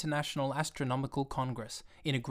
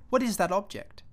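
higher, lightly voiced child's question; a boy pointing at a strange thing; a hint of a curious child; curious little boy; 7 semitones higher than usual. A narrator's reading. Prince asks about plane.

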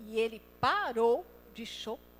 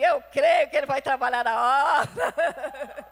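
laughing as God; 9 dB louder than usual. Retold or imitated. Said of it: "Deus já tava falando assim".

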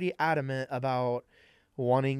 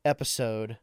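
sultry voice. Pretend. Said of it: "that sultry voice you just heard".

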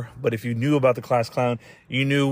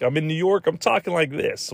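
higher-pitched, badly faked New York accent; 5 semitones higher than usual. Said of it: "they pull the Southern accent when they need to".

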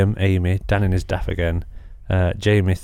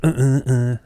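imitated tic grunts; 5 semitones higher than usual. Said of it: "He used to go".

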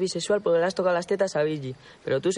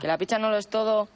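mocking echo; 4 semitones higher than usual. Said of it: "hablas como los maricones".

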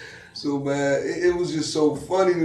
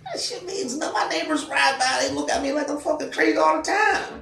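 worked up; 11 semitones higher than usual. Real, not acted. Venting about neighbors.

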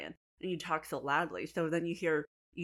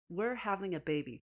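whole phrase recited without taking it in; mock read-out in one go; reading out loud; 2 semitones higher than usual. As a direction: read it off a card, uncomprehending. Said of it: "he literally reads out loud".

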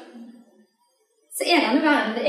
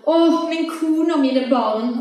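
put-on slow, raised, pleading cry for his wife and children; desperate cry; 5 semitones higher, 4 dB louder, slower than usual. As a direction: cry out in despair, drawn out. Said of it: "i sin fortvilelse så roper han". (fortvilet rop)

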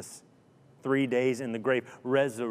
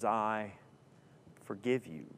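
soft reprise; 4 semitones lower, 7 dB quieter than usual. Acted. Preacher repeating the three words.

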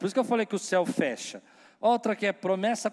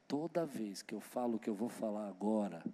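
much softer, lower, slow hushed voice; leaning in to whisper; 5 semitones lower, 7 dB quieter, slower than usual. Real, not acted. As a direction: lean in and hush it, slowly. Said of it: "eu vou falar baixinho".

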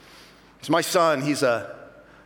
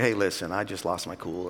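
sheepish apology; 10 semitones lower, 6 dB quieter than usual. Retold or imitated. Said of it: "be like".

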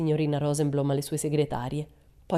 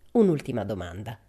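compressed; 5 semitones lower than usual. A narrator's reading. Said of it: "con una voce stranamente compressa".

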